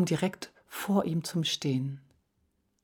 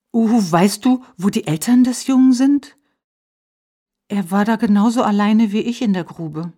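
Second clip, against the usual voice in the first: higher, louder small hare asking the owl; a small hare's bright, eager plea; little hare's voice; 5 semitones higher, 9 dB louder than usual. Acted. Little hare asking the owl, raised and higher.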